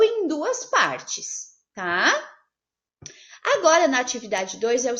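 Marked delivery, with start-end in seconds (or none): 0.0-1.5 em duas partes said very slowly, each word marked; emphasizing in two parts. Shown as a demonstration. Teacher stressing the rule for the class, slowly. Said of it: "a separação correta".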